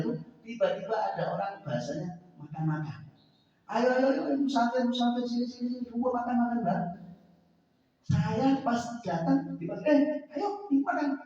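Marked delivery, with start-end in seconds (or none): 3.6-6.9 higher, lightly voiced women calling a traveller over; mock friendly calling. Women at a food stall calling a passing traveller in. 9.9-11.2 much higher, bright beckoning call; eager invitation. Retold or imitated. A stranger urging the hungry child to come eat.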